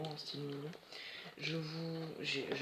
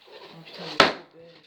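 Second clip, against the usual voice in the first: excited gush; 14 dB louder than usual. Real, not acted. Gushing over the unboxed doll.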